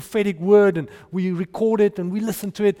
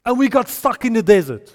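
loud, higher rallying command to a crowd; Joshua commanding; 5 semitones higher, 6 dB louder than usual. Retold or imitated. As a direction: lay down the one rule to the people. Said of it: "He says".

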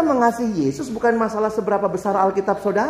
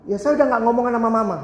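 put-on higher, fast teen voice; Jakarta teen; 4 semitones higher, much faster than usual. Teenager tells the pastor he stopped talking to mom, high and fast. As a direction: rattle it off defensively.

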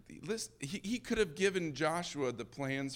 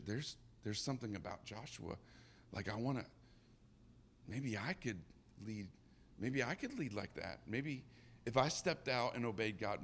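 awed hush; 6 dB quieter than usual. Retold or imitated. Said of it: "and they're going".

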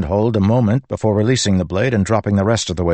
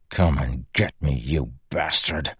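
low, soft menacing whisper; 5 semitones lower, 6 dB quieter than usual. Acted. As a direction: breathe the threat quietly, defiant. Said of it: "he whispered".

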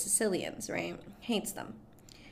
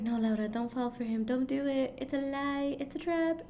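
pleading warning, pitch climbing higher; urgent warning; 6 semitones higher than usual. Retold or imitated. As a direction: beg her off, rising line by line. Pleading with a film character.

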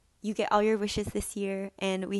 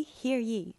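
town crier; 3 semitones higher than usual. Pretend. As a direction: repeat the call, settling down. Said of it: "I feel like that was really weird".

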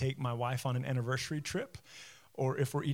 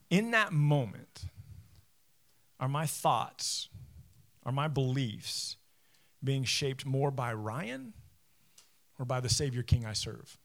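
slow and deliberate; slower than usual. Acted. Slow emphatic rhetorical question.

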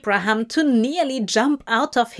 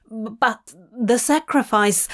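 stammering. Acted. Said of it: "Abraham stammered".

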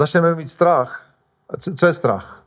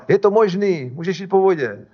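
higher-pitched retold call, easing off; mildly called-out encouragement; 4 semitones higher than usual. Jesus calling to Peter over the waves, lightly called out. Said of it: "Ježíš na něj volal".

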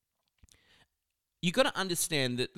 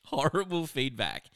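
"horrible feedback" said again through a light laugh; laughing repeat. Shown as a demonstration. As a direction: repeat it with an amused chuckle. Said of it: "friends that have been giving horrible feedback".

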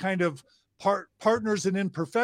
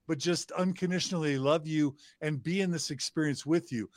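gentle empathetic parent. Retold or imitated. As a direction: soothe a struggling kid, unhurried and kind. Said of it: "They want a parent that's like".

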